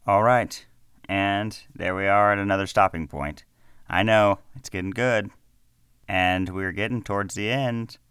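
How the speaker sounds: loud outro. Real, not acted. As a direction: say it out loud to the listeners. Outro, first louder take.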